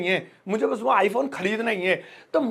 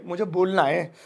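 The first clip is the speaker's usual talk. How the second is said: reluctant, forced; 4 semitones lower, 3 dB quieter than usual. Shown as a demonstration. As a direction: lower and softer, dragging the words out of necessity. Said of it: "मजबूरी में कोई चीज बोले". (मजबूरी में धीमे, बेमन से बोलना)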